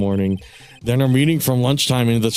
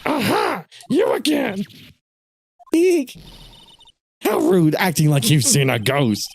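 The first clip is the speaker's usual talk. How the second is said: high, creaky granny, full of mock offense; high prim granny scolding; old lady voice; 4 semitones higher than usual. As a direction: play a sweet little old lady, very high. Voices sweet little old lady.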